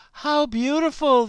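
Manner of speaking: lightly voiced big ox, admiring; a hint of a dazzled ox. Ox admires the lilies.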